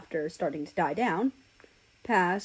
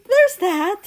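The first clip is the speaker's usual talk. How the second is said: drawn-out awkward punchline; 13 semitones higher, 11 dB louder than usual. Acted.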